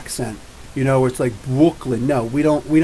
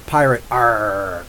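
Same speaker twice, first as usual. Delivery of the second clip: mock pirate; 5 semitones lower, slower than usual. Pirate bubbler joke.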